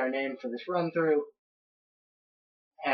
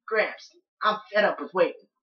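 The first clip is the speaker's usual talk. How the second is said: put-on higher-pitched kid-like grumbling at grandpa; impatient grandson; 4 semitones higher, 4 dB louder than usual. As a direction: complain to Gramps in a raised voice. Voices impatient grandson Green.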